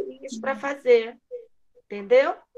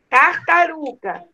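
slow syllable-by-syllable; slower than usual. Shown as a demonstration. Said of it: "Qual é a sílaba que está faltando?".

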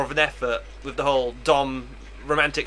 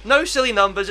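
grandiose declaiming; 8 semitones higher than usual. Pretend. Proudly declaiming silly names.

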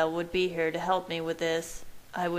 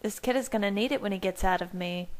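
lightly voiced higher character; Bella's voice; 5 semitones higher, faster than usual. A narrator's reading. Bella explains her thirst, in a higher character voice. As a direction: lift into her higher, chatty voice.

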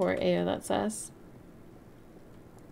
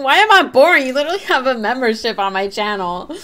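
indignant surprise; 4 semitones higher, 10 dB louder than usual. Real, not acted. Indignant reply to chat.

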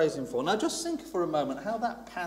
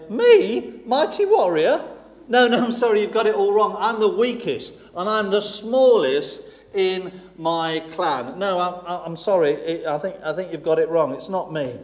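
Gideon protesting; 5 dB louder than usual. Acted.

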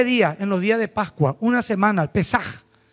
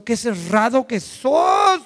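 exasperated; much slower than usual. Retold or imitated. Lawyer scolding the stubborn man, slow mock shout. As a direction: drag it out slowly and shout it.

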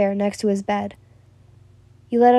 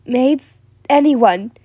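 mildly raised call; 5 dB louder, slower than usual. Acted. She calls out to his staff, lightly raised voice. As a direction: call for help, a little louder. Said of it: "you called out to his staff".

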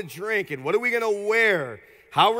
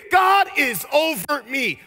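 louder, slow declaration; declaring; 4 semitones higher, 4 dB louder, slower than usual. Shown as a demonstration. Congregation declaring it, louder and slow. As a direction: say it like you mean it. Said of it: "say it like you mean it".

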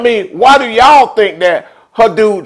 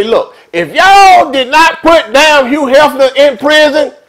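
protest shout; 4 semitones higher, slower than usual. Pretend. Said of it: "That's what I'm gonna say".

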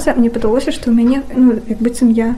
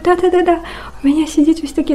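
eager rush; 6 semitones higher than usual. Retold or imitated. Eager answer on the phone.

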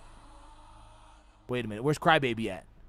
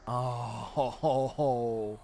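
ordinary talk

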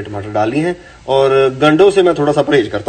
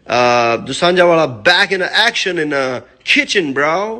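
announcer voice; much slower than usual. Acted. Announces his comeback in the kitchen.

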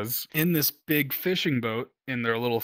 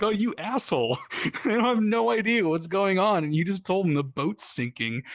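higher, louder, laughing through the words; laughing scold; 8 semitones higher, 4 dB louder than usual. Retold or imitated. Laughing at the watch tender who scared the detainees. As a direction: scold him while cracking up. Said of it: "I was like".

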